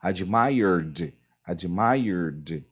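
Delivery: teacher modelling the "d" ending; modelled "admired". Shown as a demonstration. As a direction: say "admired" twice, slowly, ending on "d". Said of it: "é som de D".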